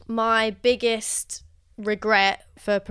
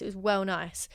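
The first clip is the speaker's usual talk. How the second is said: Essex accent; 5 dB quieter than usual. Real, not acted. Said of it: "I sound as though Essex then".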